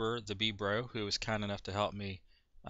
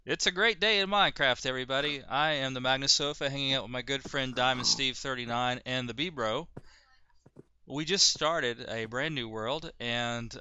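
excited host intro; 3 semitones higher, 3 dB louder than usual. Acted. Show intro, high energy.

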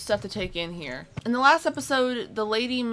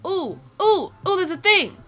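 excited; 8 semitones higher, 5 dB louder than usual. Real, not acted. Spots creature, excited.

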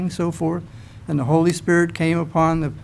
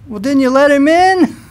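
higher, louder mock disbelief; incredulous question; 8 semitones higher, 5 dB louder than usual. The others answer the woman who left Peter outside, incredulous. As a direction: toss it back as an incredulous question. Acted reply of the others to her.

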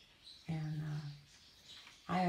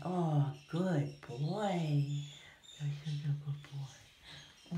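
slow tender praise; much slower than usual. Real, not acted.

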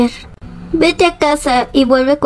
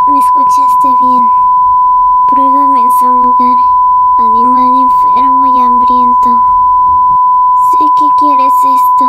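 pitched way up and louder, teasing come-on; seductive tempter; 3 dB louder than usual. Acted. Ice cream tempting hungry Peter, very high loud seductive voice. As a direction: lure him in, high and loud.

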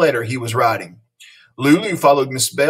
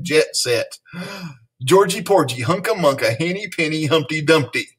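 rapid word flood; 3 semitones higher than usual. Acted. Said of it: "words flooded the air".

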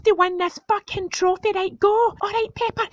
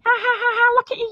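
mocking laugh; 4 semitones higher, much faster than usual. Mocking dad's toes.

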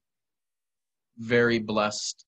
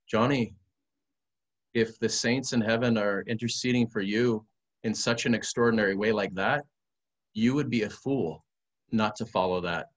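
lightly imitated Colombian accent; priest's counsel with a hint of Colombian accent; measured, lightly Colombian-accented delivery. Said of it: "do the Colombian accent that he does".

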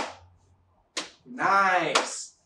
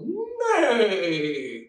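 pony neigh. Shown as a demonstration. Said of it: "your best pony sounds".

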